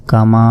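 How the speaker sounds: "কামা" with a long sustained final vowel; three-alif elongation. Shown as a demonstration. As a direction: draw out the "মা" of "কামা" steadily. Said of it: "এখানে তিন আলিফ টানার কারণ". ("কামা"-র শেষে তিন আলিফ টান)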